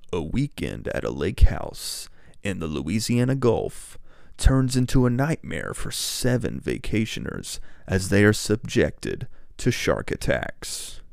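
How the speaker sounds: slow, spooky movie-trailer read; scary voice. Shown as a demonstration. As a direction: read it like a horror narrator. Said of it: "like, a scary voice".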